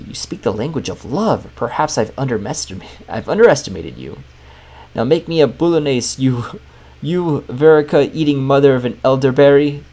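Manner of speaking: a hint of a French accent, grudging then ordering; a lightly French chef eyeing you suspiciously; lightly voiced French chef. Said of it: "In a thick French accent".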